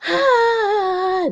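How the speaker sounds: high burst of laughter; a squealing laugh breaking off; high loud laughing exclamation. Acted. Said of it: "when she stopped laughing".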